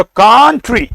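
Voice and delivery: कंट्री with a long stressed first syllable and a quick "tree"; timed syllables. Shown as a demonstration. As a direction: lean on the "kun" of कंट्री, then clip the "tree". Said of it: "एक बटा चार समय देना होगा". (कंट्री में "कं" लंबा, "ट्री" छोटा)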